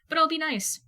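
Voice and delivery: sweet on the surface, needling underneath; too sweet. A narrator's reading. Steph teasing Jason about the paramedic, too sweet. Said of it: "with a too sweet smile".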